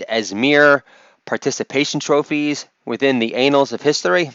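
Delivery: lightly imitated talk-show interviewer; lightly put-on host posing a pointed question; Bill Maher. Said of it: "this is my impersonation of Bill Maher".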